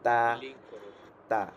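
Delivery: "তা" said flat and light; flat, thin sound. Shown as a demonstration. Teacher repeating the letter for students, flat "তা". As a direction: keep "তা" thin, vowel open. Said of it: "flat sound আসবে এটা".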